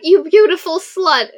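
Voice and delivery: high, loud teasing sister voice; hammed-up snarky sister greeting; mock insult. Sisters' mocking reunion quote.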